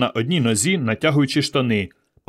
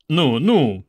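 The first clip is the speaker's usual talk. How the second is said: mildly placating; peaceable; 2 semitones higher than usual. A narrator's reading. Ivan retreats from the angry boy, peaceable. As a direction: back off in a peaceable tone. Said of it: "миролюбиво сказав Іван".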